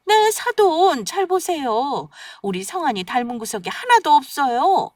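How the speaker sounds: jab each word at the in-laws; snide and pointed. Acted. Mother-in-law snipes at in-laws.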